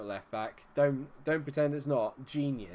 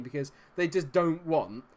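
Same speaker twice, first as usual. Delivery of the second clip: normal talking voice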